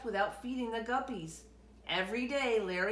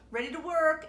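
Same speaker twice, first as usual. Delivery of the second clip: high, louder ready to work; eager announcement; 6 semitones higher, 7 dB louder than usual. A narrator's reading. Larry arriving at the store eager to work. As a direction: announce it proudly.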